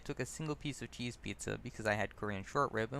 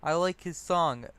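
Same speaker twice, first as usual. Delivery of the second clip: a lightly voiced drunk, higher and louder, rambling; eager drunk showing off his music knowledge; drunkard; 6 semitones higher, 7 dB louder than usual. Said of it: "the drunkard says".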